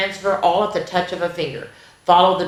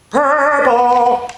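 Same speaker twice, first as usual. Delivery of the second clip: excited answer; 5 semitones higher, 4 dB louder than usual. Acted. Answering quiz again.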